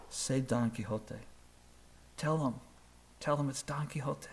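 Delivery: very soft, hushed half-whisper; urgent whisper. Retold or imitated. Student whispers down to Don Quixote on stage, hushed. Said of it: "he whispers to Don Quixote".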